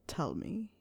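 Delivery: breathy intimate whisper. A narrator's reading. Snape whispering to Harry, asking him to speak, hushed. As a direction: whisper it close and low.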